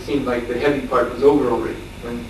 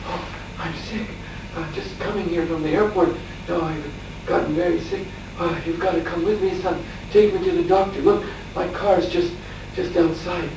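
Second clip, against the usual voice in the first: higher-pitched, softer ailing father's plea; imitating sick father; 4 semitones higher, 5 dB quieter than usual. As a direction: lightly voice an ailing father asking for help. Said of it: "holding his heart and saying".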